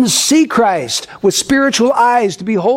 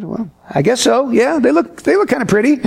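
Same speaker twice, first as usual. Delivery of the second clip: halfhearted agreement; 3 semitones higher than usual. Retold or imitated. His halfhearted reply to Debbie.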